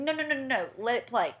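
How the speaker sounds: quick, high-pitched string of no's; urgent protest. Retold or imitated. Woman to fiance getting out of car, urgent protest. Stops him leaving the car.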